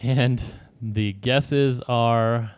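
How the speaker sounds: slow lead-in with weight on "guesses"; emphasis on "guesses". Real, not acted. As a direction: draw out the line, stressing "guesses". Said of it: "Emphasis on the word guesses".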